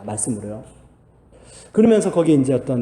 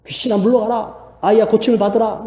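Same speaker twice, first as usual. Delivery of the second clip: higher, rebuking the spirit; commanding exorcism; 6 semitones higher than usual. Retold or imitated. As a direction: order the demon out boldly. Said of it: "막 기도했습니다".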